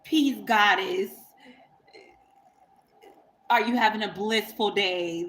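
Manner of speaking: lightly imitating an over-the-top divine man; mock spiritual greeting. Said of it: "this is how he would talk when we first met".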